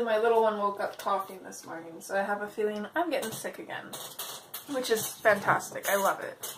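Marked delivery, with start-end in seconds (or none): 4.7-6.5 sarcastic. Real, not acted. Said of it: "Total sarcasm".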